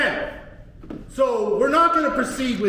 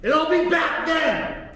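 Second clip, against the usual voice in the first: angry shout; 3 semitones higher than usual. Real, not acted. Defendant telling the judge he'll be back, angry shout. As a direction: yell it at the bench.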